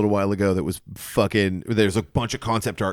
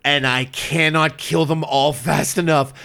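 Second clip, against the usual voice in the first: hammed-up urgent plea, slightly raised pitch; mock desperation; 4 semitones higher than usual. Gamer begging his wife for help with imps, mock desperate. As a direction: plead as if under siege, playfully overdone. Acted frantic reply to screaming ex-wife.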